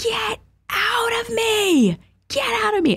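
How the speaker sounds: very high-pitched, very slow, drawn-out screaming. Retelling being prayed for and feeling something manifest: retelling a scream. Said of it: "I just start screaming".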